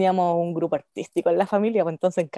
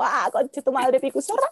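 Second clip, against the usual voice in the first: mock outburst; 3 semitones higher than usual. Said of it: "esto es como distinto".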